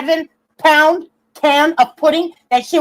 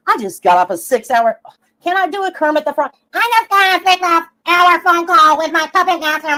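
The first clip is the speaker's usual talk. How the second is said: lightly voiced Karen with a sugary, fake-sweet read; Karen impersonation; 3 semitones higher than usual. Vlogger mocks a stalker's post, in a lightly voiced Karen. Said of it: "That was my best Karen impersonation".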